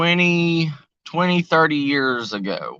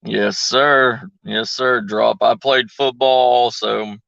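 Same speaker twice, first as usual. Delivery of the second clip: glitchy robotic audio from bad signal; choppy, robotic voice over a weak connection; 2 semitones lower, 4 dB louder, slower than usual. Real, not acted. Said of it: "am I sounding like a robot again".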